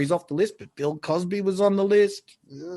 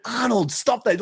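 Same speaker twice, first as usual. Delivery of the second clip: higher-pitched mock scolding; chastising; 6 semitones higher than usual. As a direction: imitate a partner telling him off. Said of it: "she chastised him for being rude".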